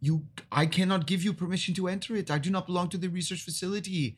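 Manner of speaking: a hint of a brusque official; lightly voiced stern station boss; supervisor NPC.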